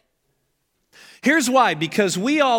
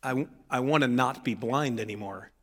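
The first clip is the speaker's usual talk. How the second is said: sincere confession; 6 semitones lower, 5 dB quieter than usual. Acted.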